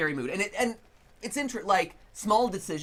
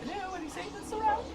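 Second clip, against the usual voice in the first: spooky call-out; 13 semitones higher, 6 dB quieter, faster than usual. Pretend. Calling into the empty house.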